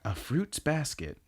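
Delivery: "fruits" drawn out slowly and softly; slow, pointed emphasis on "fruits"; stress on fruits. Real, not acted. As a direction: linger on "fruits", plural. Pointed correction of the title.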